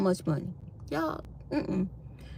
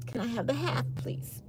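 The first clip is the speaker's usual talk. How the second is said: soft, tiny pleading ask; small pleading voice; 3 semitones higher, 12 dB quieter than usual. Retold or imitated. Begging the waiter for the half portion, tiny soft plea.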